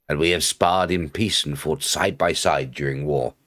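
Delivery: measured read-aloud of a character's speech; quest narration. Acted. Streamer reading the quest to viewers, measured narration.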